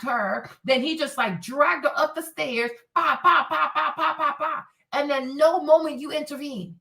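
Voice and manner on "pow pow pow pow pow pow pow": rapid string of mock impact noises; imitated thumping blows. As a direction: act out bumps going up the stairs. Imitating blows dragged up stairs.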